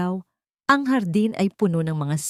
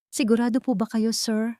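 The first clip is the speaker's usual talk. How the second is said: a higher, anxious question full of concern; worried; 6 semitones higher than usual. A narrator's reading. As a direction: ask him gently, worried for him. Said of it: "Ang boses ay puno ng pag-aalala".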